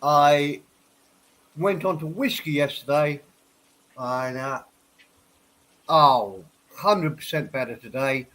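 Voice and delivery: stuffy nose from a head cold; blocked nose. Real, not acted. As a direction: talk through a stuffed-up nose. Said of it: "you can tell I'm still a bit stuffed up".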